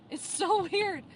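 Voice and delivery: laughing. Real, not acted. Laughing at her own braces.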